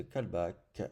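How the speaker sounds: "callback" with French vowels, "calbac"; French accent. Real, not acted. Developer reading out a setup field, French accent. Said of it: "j'ai pris l'accent, euh, l'accent français".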